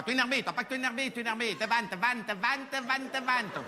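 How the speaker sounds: mock Asian accent with a Marseille twang. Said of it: "ils parlent comme ça".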